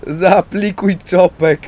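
slow loud resigned order. Real, not acted. Player forced to act, slow and loud. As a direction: drag it out loud, no way around it. Desperate resolve, game action.

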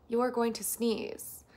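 lightly robotic, slow assistant voice; a hint of automated monotone; Siri voice. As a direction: say it evenly, word by word, like a phone assistant. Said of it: "Oh, sorry, I meant Siri".

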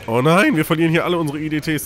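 loud, high cry of dismay; fast, shouted panic over losing units. Real, not acted. Units being wiped out in game.

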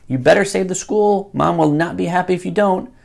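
ordinary delivery

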